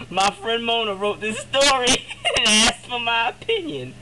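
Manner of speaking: words broken by laughter; laughing while explaining. Real, not acted. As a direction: try to explain through giggles.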